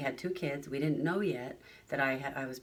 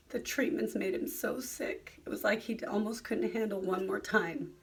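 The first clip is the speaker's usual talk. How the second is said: whispered, choked-up retelling; a wife, moved to tears, whispers about her husband's illness; emotional whisper; 5 semitones higher than usual. Real, not acted. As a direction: let the words drop to a tearful whisper. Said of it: "let me get emotional".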